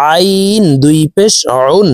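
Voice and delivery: আইন and উন squeezed from mid-throat; mid-throat ain. Shown as a demonstration. Teacher showing the letter ain, mid-throat squeeze on উন. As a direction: start উন with a tight throat ain. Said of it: "হলকের মধ্যখান থেকে উচ্চারণ করব".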